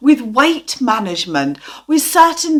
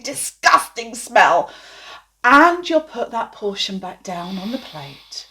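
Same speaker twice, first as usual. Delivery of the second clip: aversive hypnosis voice. Shown as a demonstration. Therapist demoing aversion against cauliflower, disgusted. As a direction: make the food sound foul. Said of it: "let's do a quick demo of that".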